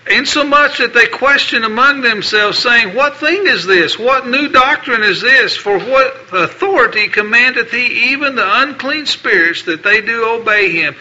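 formal, declaiming Bible reading; King James passage read from the pulpit; scripture reading. Acted. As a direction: proclaim the verses to the congregation. Reads scripture aloud.

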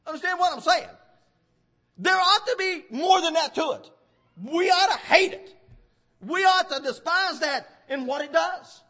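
emphatic sermon delivery, key words punched; forceful preaching. Real, not acted. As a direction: preach it hard in driving phrases.

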